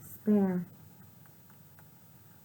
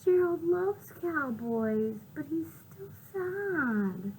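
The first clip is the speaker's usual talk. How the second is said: Piggy; 9 semitones higher, slower than usual. Acted. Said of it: "Piggy says".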